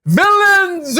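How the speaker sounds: a piercing, very high, loud shriek; the killer shrieks his confession at the police. A narrator's reading. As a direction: scream it at the officers. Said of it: "I shrieked".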